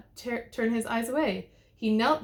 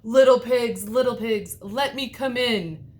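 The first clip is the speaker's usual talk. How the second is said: loud, higher, slow wolf call; huffing wolf; 3 semitones higher, 8 dB louder than usual. A narrator's reading. The wolf calling to the three little pigs, loud huffing. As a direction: huff it at the door. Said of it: "huffed the big bad wolf".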